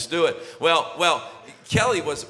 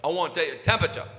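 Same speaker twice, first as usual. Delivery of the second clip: imitating his son; much faster than usual. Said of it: "and he said".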